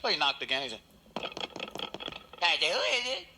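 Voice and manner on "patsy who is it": higher, louder impatient call; louder plumber. Acted. Plumber knocking again calls out louder, impatient. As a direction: call through the door, getting annoyed.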